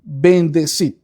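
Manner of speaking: "bendecid" said on its own with weight; stressed word. Shown as a demonstration. A preacher to his brothers, pausing to stress "bendecid". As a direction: set "bendecid" apart after a pause, stressed. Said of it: "Luego vuelve a enfatizar esta palabra".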